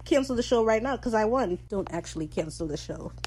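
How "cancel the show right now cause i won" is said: playfully dramatic, raised pitch; being dramatic. Pretend. Fan jokingly demanding the show end, being dramatic. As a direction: make a mock-dramatic demand in triumph. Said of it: "I'm just being dramatic".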